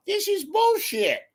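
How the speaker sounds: loud ranting Carville voice, high and shouting; hammed-up Carville rant; James Carville impression. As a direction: rant like Carville, raising the pitch. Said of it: "I act like James Carville".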